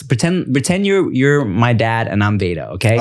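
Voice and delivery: lightly voiced child directing a game; bossy little daughter. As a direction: imitate a small kid setting the rules. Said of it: "So she'll be like this".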